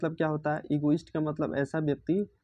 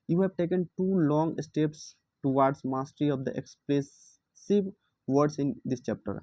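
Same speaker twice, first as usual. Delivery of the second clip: slow textbook reading; much slower than usual. Acted. Teacher reads the textbook passage to students, slow reading aloud. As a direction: read the English line word by word, very slowly.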